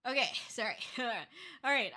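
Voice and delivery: stuffy nose after blowing it; blocked nose. Real, not acted. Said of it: "blowing my nose".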